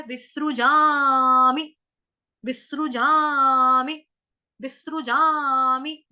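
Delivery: विसृजामि said slowly, each syllable clear; slow syllable drill. Shown as a demonstration. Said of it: "व के साथ छोटी की मात्रा वि". (विसृजामि को धीरे-धीरे, हर अक्षर साफ़ बोलें)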